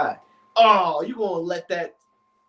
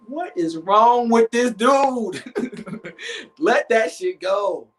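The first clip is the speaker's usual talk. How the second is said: exasperated; 6 semitones higher, 3 dB louder, much slower than usual. Pretend. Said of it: "Other part of me is talking like".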